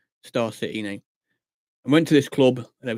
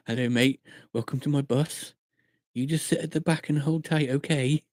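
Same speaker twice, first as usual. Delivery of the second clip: softly spoken welcome, put on; acted bus driver; 4 dB quieter than usual. Driver welcoming a passenger aboard, softly reassuring. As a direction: play a soothing driver greeting a passenger.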